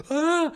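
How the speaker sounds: sharp high cry of alarm; startled yelp. Retold or imitated. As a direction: yelp while bolting away. Fleeing attacking goose.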